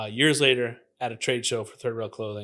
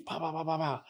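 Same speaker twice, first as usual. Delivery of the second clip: imitated gunshots; 5 semitones higher, 4 dB quieter than usual. Storyteller imitating the man shooting at him, quick gunfire sounds. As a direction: rattle off soft cartoon gunshot noises. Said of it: "and he shoots".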